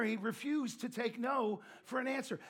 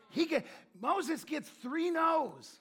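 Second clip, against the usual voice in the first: slowly, deliberately, higher; slow emphasis; 6 semitones higher, 3 dB louder, much slower than usual. Real, not acted. Preacher stressing Moses's three refusals, slow and drawn out. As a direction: spell it out slowly. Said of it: "sermon emphasis".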